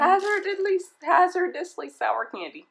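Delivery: high, slow hammed-up label read; dramatic reading. Real, not acted. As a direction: read the warning like a thriller.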